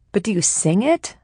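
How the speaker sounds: pushing, desperate. Acted. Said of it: "I push, desperate now".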